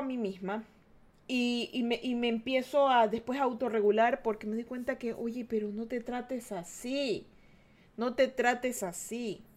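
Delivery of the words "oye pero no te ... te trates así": gentle self-comfort. Acted. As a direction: soothe yourself slowly, like a hurt child. Gently comforting her own self.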